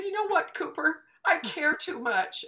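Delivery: high-pitched, exasperated confession; acted worked-up admission; retold emotional outburst. Retells outburst to her son.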